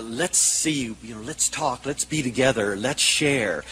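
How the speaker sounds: soft, low coaxing voice; gentle invitation. Retold or imitated. Therapist inviting a small child to talk and play, gentle.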